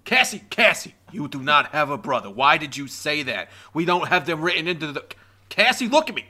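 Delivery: shouting at a character in jest; mock exasperated scolding. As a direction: berate her in mock disbelief.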